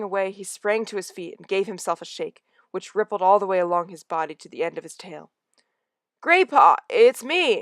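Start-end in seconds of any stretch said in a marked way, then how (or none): 6.2-7.6 high, loud second call; insist, calling his name; cat calling his friend again; repeated shout. Acted. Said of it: "he repeated".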